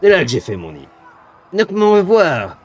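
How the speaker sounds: slow, relishing monster threats; gloating demon. Acted. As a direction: savour the coming kill. GM voices the demon.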